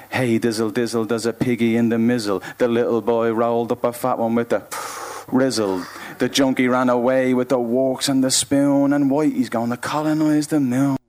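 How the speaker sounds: bouncy rhythmic rhyme after a halting lead-in; spoken-word poetry. Acted. Poet breaking into a nursery-rhyme parody, rhythmic spoken word. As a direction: chant it like a twisted nursery rhyme.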